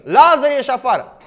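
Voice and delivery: loud commanding shout of "Lazar, ieși afară!"; commanding call. Retold or imitated. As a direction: call the dead man out with authority. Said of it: "Și Domnul strigă". (strigăt poruncitor)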